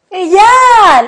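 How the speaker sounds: loud, stretched-out shout. Signing off the episode with the co-host: shouting. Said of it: "Perdón por el grito".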